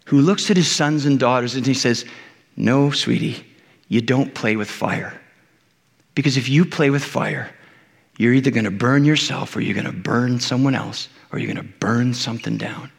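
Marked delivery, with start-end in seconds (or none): 2.5-12.9 loving father. Retold or imitated. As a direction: tell your child kindly not to touch fire. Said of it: "think loving father".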